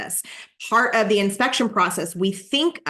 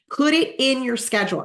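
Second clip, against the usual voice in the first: "put it in your schedule" pitched higher for emphasis; firm, high-pitched push on "put it in your schedule"; emphatic instruction; 6 semitones higher than usual. Real, not acted. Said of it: "I cannot emphasize that enough".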